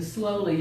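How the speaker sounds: slowly lightly emphasized; stress on slowly. Real, not acted. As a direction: put gentle weight on the word slowly. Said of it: "I'm emphasizing the word slowly".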